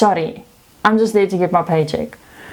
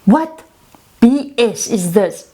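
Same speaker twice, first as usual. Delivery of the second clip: boss yelling; 4 semitones higher, slower than usual. Retold or imitated. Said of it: "she's like".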